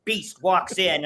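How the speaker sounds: lightly hammed-up indignant Karen; mock outrage, lightly played for the camera; put-on video complainer. Husband fakes a complaint about the dog in the restaurant, mock-indignant. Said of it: "I hit record and said".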